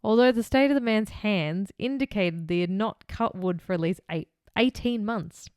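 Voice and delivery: measured reading of a case file; true-crime narration. A narrator's reading. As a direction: read the account out formally, in phrases. Reads the case script.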